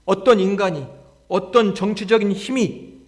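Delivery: rhetorical challenge building to a high, loud cry; defiant sermon crescendo; impassioned preaching. Acted. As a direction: build steadily to full pulpit force.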